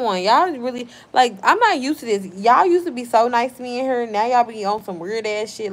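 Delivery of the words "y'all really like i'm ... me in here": raised, higher-pitched complaint; hurt, angry scolding. Real, not acted. Streamer scolds chat for turning mean, exasperated. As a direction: let real frustration push the voice up.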